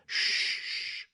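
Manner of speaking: a sharp whispered shh; two tea-party guests silencing Alice with a whisper; shushing. A narrator's reading. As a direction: hush the girl at once. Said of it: "the Hatter and the March Hare went".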